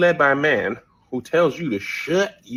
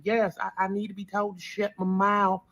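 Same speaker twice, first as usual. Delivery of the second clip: mock submissive; 5 semitones higher, 6 dB quieter than usual. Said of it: "you also hear women like".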